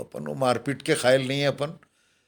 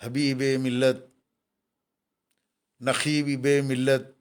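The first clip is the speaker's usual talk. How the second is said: stretched slowly syllable by syllable; drawn-out full title; slower than usual. Retold or imitated. Speaker mocking the long honorific, said slowly and drawn out. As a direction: spell the long title out slowly to show how long it is. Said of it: "अब इतना लंबा".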